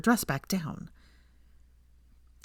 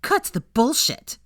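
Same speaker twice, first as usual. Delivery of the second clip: slow, louder higher angry snarl; hissed; 7 semitones higher, 4 dB louder, slower than usual. A narrator's reading. Millicent to Hermione, slow angry hiss. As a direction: spit the words out slowly. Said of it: "she hissed".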